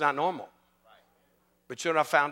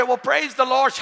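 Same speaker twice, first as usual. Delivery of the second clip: raised, higher praise; mildly acted jubilant exclamation; retold rejoicing; 9 semitones higher, 8 dB louder than usual. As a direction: answer with an excited pastor's praise. Retold rejoicing reply on phone.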